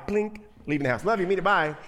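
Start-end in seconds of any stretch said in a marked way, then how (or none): 1.0-1.7 rushed catchphrase. Retold or imitated. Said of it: "kind of a catchphrase".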